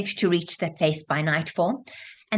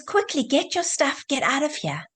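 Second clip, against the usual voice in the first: urgent, higher-pitched mock shout; mild retold shout; 6 semitones higher than usual. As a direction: half-shout a warning, voice raised in pitch. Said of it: "And he shouts".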